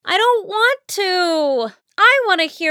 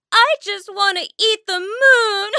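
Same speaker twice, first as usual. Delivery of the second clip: crying; 4 semitones higher than usual. Acted. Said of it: "Mom began to cry".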